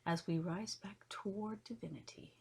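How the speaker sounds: measured poem recital in spaced phrases; poetry reading. Acted. Host reading esoteric poetry to listeners, measured poetry reading. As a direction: read each line of verse with pauses between. Reads her poem aloud.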